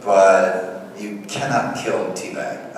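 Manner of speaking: slow, spaced stress on "cannot kill T-Bag"; emphatic condition. Retold or imitated. Actor telling writers his one condition, slow stress on "cannot". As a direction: lay down "cannot" slowly and deliberately.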